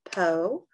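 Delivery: "Po-lice-men" in three beats; "Po-lice-men" said part by part; split into syllables. Shown as a demonstration. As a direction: break "Po-lice-men" into parts. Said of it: "three word parts".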